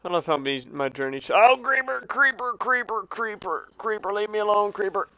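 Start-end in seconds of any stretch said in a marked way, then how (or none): 1.3-5.1 high, repeated cries of alarm; panicked alarm. Real, not acted. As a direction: fend it off in a fluster. Creeper approaches player in game.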